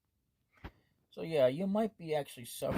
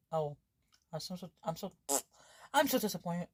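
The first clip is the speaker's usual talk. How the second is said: mock disappointed; 4 semitones higher, 3 dB louder than usual. Girl upset her cooking failed.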